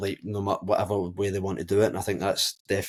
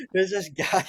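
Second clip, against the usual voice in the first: mock high voice; 10 semitones higher, slower than usual.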